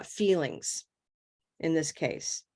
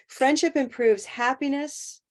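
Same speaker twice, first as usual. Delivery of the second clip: "Friendship improves happiness" as one separate phrase, pitched higher; pause as full sentence; 6 semitones higher than usual. Shown as a demonstration. Teacher reading out the first chunk, "Friendship improves happiness" set apart. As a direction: say "Friendship improves happiness" as a unit, then stop. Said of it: "That's a full sentence by itself".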